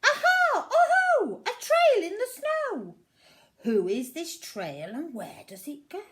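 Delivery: put-on high, loud triumphant child creature cry; a small monster thrilled at her discovery; very high and loud excited Aha; excited little Gruffalo's child. Gruffalo's child finds trail.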